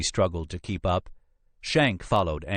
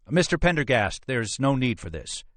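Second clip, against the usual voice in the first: higher-pitched placating captain; anxious protest; 7 semitones higher than usual. Acted. Captain protests as phone call proceeds.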